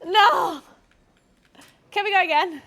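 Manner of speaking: high and loud pleading; frustrated plea. Real, not acted. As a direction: beg for another try. Frustrated after the wipe.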